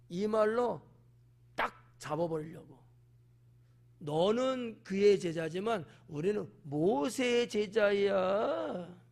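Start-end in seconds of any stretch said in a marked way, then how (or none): 4.0-9.0 slow, superior, emphasis on 그의; haughty put-down. Acted. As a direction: lay it down slowly from above. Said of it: "이러는 거지".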